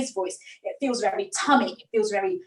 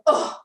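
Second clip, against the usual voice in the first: louder short belly grunt; teenager's grunt; 5 dB louder than usual. Shown as a demonstration. Teacher repeats the tummy sound, teenage grunt. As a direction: huff it out like a teenager. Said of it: "it's like a teenager".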